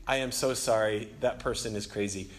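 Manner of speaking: low, soft imagined apology; apologetic look, voiced. Driver silently excusing her yelling passenger, apologetic. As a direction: murmur an embarrassed apology for someone else. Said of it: "which I interpreted as".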